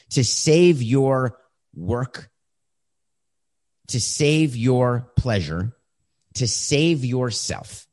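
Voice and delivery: slow, each save leaned on; a sermon on fake apologies; slow emphatic list. Real, not acted. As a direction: hammer every save home.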